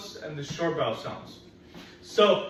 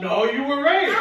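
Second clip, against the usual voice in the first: excited praise; 9 semitones higher, 8 dB louder than usual. Real, not acted. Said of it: "teacher praises pupil".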